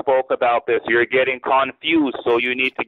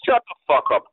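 higher pitched curse; angry outburst; 6 semitones higher than usual. Real, not acted. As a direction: lash out at the caller. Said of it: "What did you say?".

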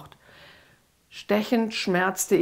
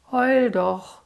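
spiteful taunt; 5 semitones higher than usual. Acted. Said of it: "Lucifer lachte wieder gehässig".

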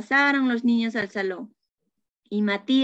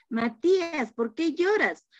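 concerned teacher; 5 semitones higher than usual. Acted. Teacher asks crying child.

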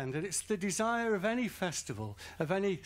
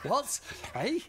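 louder, laughing broken English; broken English mockery; 4 dB louder than usual. Mocking how the British answer a European, loud and laughing. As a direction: laugh through a mock broken-English reply. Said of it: "We can't even say".

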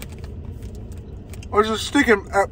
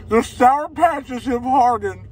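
slower, higher, the Sour hit hard; mock dramatic announcement; 4 semitones higher, slower than usual. Shown as a demonstration. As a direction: proclaim it like grave news, drawn out.

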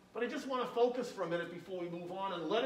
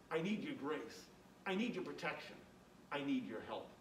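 soft pleading prayer; 2 semitones lower, 6 dB quieter than usual. Pretend. Voices a needy humble prayer.

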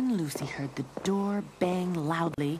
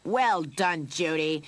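loud, gloating praise; put-on cat catcher voice; gloating villain; 6 dB louder, slower than usual. A narrator's reading. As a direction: praise your sidekick like a pleased villain. Villain praises his mouse.

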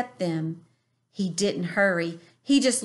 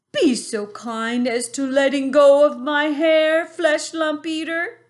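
higher, louder, politely firm giant; calm giant, higher pitch; 7 semitones higher, 7 dB louder than usual. A narrator's reading. BFG asking the bully to let go, politely firm.

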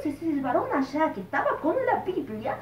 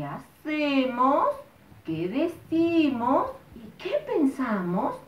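slow preaching; 3 dB louder, slower than usual. Retold or imitated. Preacher explains sin slowly.

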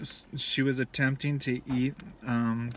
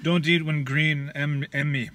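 put-on broken-English Russian accent; 4 dB louder than usual. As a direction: keep the Russian accent going. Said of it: "I love your Russian accent".

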